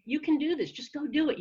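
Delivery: upbeat self pep talk; encouraging inner voice. Acted. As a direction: cheer yourself on. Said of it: "The voice you're hearing is gonna be saying".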